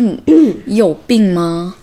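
mildly indignant scolding, retold; retold anger. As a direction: re-enact being fed up with them. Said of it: "我当时就很生气".

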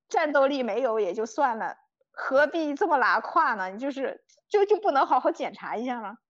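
retold exasperated scolding; a touch of annoyed reproach; mildly angry. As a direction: re-enact telling off careless companions. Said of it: "我那次是真的有点生气了".

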